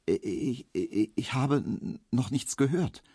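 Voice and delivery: stockend, leiser, mit Wiederholungen von „ich“; stotternd. A narrator's reading. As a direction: stammelt verunsichert. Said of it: "stotterte Emil Kubinke". (Emil stottert leise vor dem wütenden Kunden)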